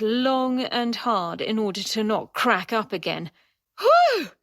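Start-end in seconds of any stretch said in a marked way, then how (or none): 3.8-4.3 high, louder gasp out of a laughing fit; breathless after laughing. Acted. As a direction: blow out the laugh, still giggly. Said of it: "scrubbing away tears of mirth".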